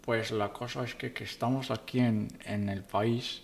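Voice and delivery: lightly voiced old Latino grandpa; a hint of a creaky abuelo; old man voice. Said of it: "I can do it so much better".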